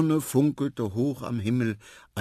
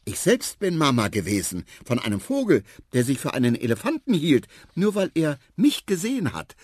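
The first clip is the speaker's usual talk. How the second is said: put-on louder, emphatic childlike telling; earnest elephant child; 7 semitones higher, 5 dB louder than usual. A narrator's reading. Son recounting his adventure to mother, emphatic childlike voice. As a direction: insist on each achievement, loud and eager.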